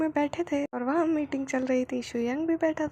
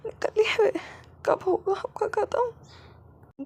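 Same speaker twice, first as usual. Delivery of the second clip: slow, higher pleading whine; weary plea; 7 semitones higher, much slower than usual. Acted. Wing asking his husband when he will finish, slow and high. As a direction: drag the words out, exhausted.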